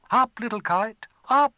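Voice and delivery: put-on boy urging his kite up; calling out. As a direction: urge the kite upward. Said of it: "Chai tied the tail".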